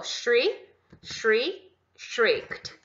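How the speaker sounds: "Shriek, shriek, shrieked" slow and clear, t audible at the end; pronunciation drill. Shown as a demonstration. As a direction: drill the forms like a teacher. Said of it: "Com som de T". (treino de pronúncia: "shrieked" com T no final)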